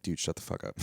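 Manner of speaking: hissed whisper of an annoyed dad; whispered scolding. Retold or imitated. Dad whispers sharply at his counting kid.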